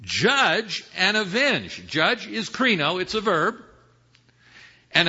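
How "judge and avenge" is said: high, raised voice pleading to God; urgent high-pitched cry to heaven. Acted. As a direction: call out to the Lord, drawing out the final words. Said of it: "crying out with a loud voice".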